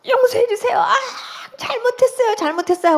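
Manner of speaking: high-pitched tearful plea, retold. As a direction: act out begging forgiveness, doubled over in pain. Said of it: "하고 우는데". (높은 소리로 울며 비는 재연)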